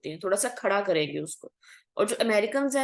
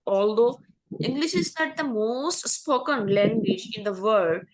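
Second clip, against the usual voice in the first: slow, careful textbook reading; slow read-aloud; much slower than usual. Shown as a demonstration. Teacher reading the English passage slowly to students. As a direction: read each word out slowly for the class.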